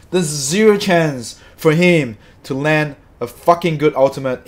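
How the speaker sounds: loud, emphatic, fed-up outburst; real anger. Real, not acted. Streamer dismissing the ultimate's chances, angry. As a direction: hammer it home angrily. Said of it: "Sorry, I'm so angry".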